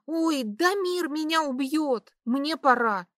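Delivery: high, panicked exclamation; a touch of tipsy panic; alarmed. A narrator's reading. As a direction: suddenly realise you're late. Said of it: "внезапно сообразила я".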